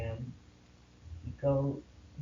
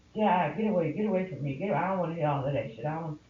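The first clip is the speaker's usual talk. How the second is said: louder, curt mock yell, fast; husband's retold shout; 4 semitones higher, 4 dB louder, faster than usual. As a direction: push her off angrily. Husband shouting her away.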